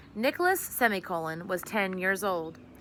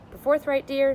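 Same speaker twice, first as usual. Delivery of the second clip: a touch of worry, pitched higher and louder; anxiously; 5 semitones higher, 8 dB louder than usual. Acted. Mother worried, pleading with her husband about the shoes. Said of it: "said Missus Semicolon anxiously".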